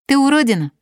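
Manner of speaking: high, loud playground jeer; childish taunt. A narrator's reading. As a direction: hurl it as a girlish insult. Girls taunting the little sister.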